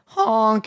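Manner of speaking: drawn-out mock goose honk. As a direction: imitate a honking goose. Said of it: "they're just like".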